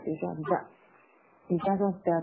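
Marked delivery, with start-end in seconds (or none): 0.3-0.6 THE reduced to an unstressed schwa; weak THE. Shown as a demonstration. Teacher showing learners the weakened article, THE unstressed. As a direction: say THE light and unstressed. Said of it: "弱化的处理啊".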